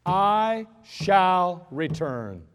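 a general's slow solemn vow; MacArthur's promise. Retold or imitated. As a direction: deliver it like a solemn general's pledge. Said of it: "He said".

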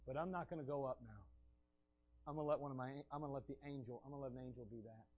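a quiet, withdrawn divine voice; hushed God. Acted. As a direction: let God's words fade away in disappointment.

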